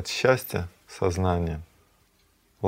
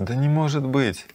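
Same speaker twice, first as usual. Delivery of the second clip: higher-pitched incredulous exclamation; astonished disbelief; 5 semitones higher than usual. Acted. The same disbelief, read again.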